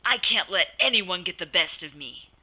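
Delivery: loud, snarling mean voice; mean angry doubt. Shown as a demonstration. Counselor acting a mean doubt for Brandy, loud and angry. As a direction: spit it out with a mean scowl. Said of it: "mean, ugly expression on my face and stated angrily".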